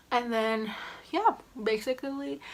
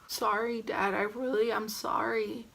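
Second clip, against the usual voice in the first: meek apology; 5 dB quieter than usual. Retold or imitated. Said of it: "let me do a recreation".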